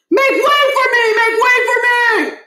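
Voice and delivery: loud high bellowing order; commanding shout. Acted. Principal Barkin pushing through the mob, shouting. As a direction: bellow at the crowd.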